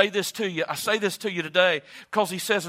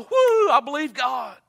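congregation's cheer; 6 semitones higher, 6 dB louder than usual. Retold or imitated. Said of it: "Man, all of y'all".

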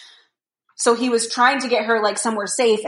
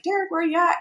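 mock shout; 8 semitones higher, faster than usual. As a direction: imitate calling for someone at reduced volume. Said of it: "shouting for him".

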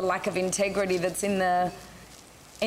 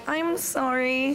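mock apology; 4 semitones higher, slower than usual. Retold apology to annoyed colleague.

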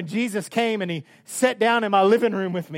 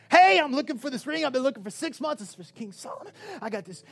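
lightly acted, higher-pitched hail; urgent searcher; 8 semitones higher than usual. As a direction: call out as if tired of searching. Acts Benaiah hailing the jeweler.

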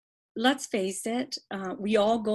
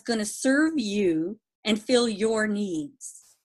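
over enunciating; 2 semitones higher than usual. Shown as a demonstration. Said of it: "let me say that slowly for the listeners".

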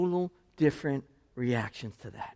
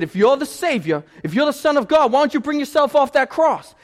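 louder, higher sneering challenge; mocking taunt; 10 semitones higher, 10 dB louder than usual. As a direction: jeer at Jesus from the cross. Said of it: "He said".

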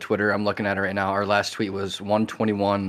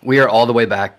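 frat bro hype; 8 dB louder than usual. Acted. Hyped bro announcement.

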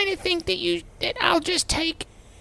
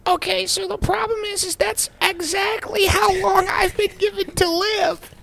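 exasperated shout; 4 dB louder than usual. Acted. Patient dying, exasperated outburst.

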